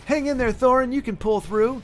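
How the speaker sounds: a touch of mock-pleading, voice lifted; mock concern. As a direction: lightly plead with a dying friend. Mock pleading with dying Thorin.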